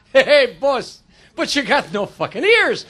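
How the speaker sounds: lightly voiced Italian accent, drawn out; hint of a slow Italian accent; Italian guy. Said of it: "The Italian guy says".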